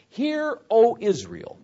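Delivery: high, measured call from scripture; scripture reading. Shown as a demonstration. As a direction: read it out as a solemn summons. Reads the verse aloud.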